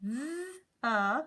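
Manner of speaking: "th" then "uh" split apart; sounding out th uh. Shown as a demonstration. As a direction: segment "th, uh" slowly. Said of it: "put these two sounds together".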